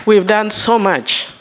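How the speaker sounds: pushing through tears to finish the thought; emotional, voice breaking. Real, not acted. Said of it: "I get emotional".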